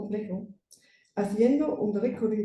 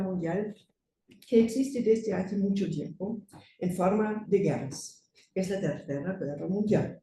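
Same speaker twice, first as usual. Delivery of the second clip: German accent. Real, not acted. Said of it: "Soy alemana, perdonen mi español".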